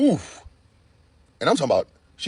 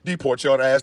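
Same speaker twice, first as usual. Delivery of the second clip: voicing Stephen Miller; 4 semitones higher, 3 dB louder, slower than usual. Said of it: "And Stephen Miller like".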